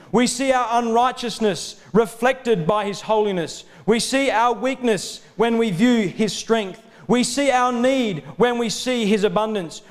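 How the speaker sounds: full-voiced preacher, phrase by measured phrase; impassioned preaching. Real, not acted. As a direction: preach it as a mounting litany.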